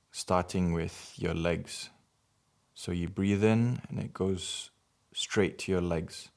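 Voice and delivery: measured meditation guidance with long pauses for breathing; guided meditation. Acted. Guiding listeners to breathe in healing light, measured meditation voice. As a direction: lead each breath in short phrases, leaving space.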